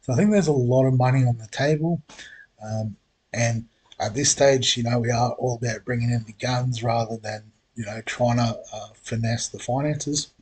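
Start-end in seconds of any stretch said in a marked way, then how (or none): 2.6-10.3 talking through hiccups; slowed by hiccups. Real, not acted. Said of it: "got the hiccups".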